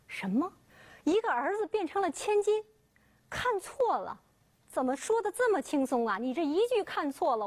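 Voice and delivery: high, outraged cry of disbelief; angry disbelief. Acted. Angry father yells at the doctor over the wrong baby. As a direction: rage at the doctor over the lost son.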